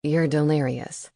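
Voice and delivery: deadpan owl; low owl voice; owl familiar voice. A narrator's reading. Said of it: "he said".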